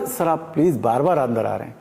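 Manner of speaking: polite, restrained request to a senior; polite to a superior. Shown as a demonstration. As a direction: ask the boss politely to stop coming in. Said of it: "अब ये कोई बड़ा आदमी".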